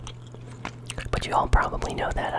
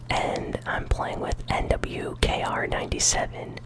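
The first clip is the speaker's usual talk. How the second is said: ASMR whisper. Real, not acted. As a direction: whisper close to the mic. ASMR gaming whisper throughout.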